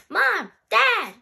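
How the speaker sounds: high, loud call to the parents; child calling through the house; yelling. Acted. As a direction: holler for Mom and Dad. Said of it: "she yelled".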